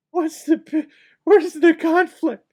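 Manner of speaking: high-pitched, loud incredulous squeal; comic outraged squeak; exasperated disbelief. Real, not acted. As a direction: voice shoots up in baffled protest. Exasperated at plot without conflict.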